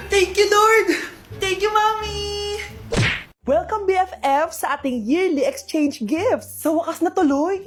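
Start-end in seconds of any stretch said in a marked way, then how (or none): 0.1-2.2 excited thanks. Acted. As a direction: cheer like you were just saved. Rescued from rain, relieved joy. (masayang pasasalamat, malakas)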